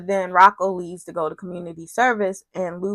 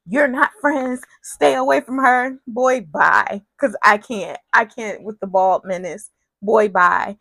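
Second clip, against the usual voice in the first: mock mad. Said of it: "But Curtis is mad".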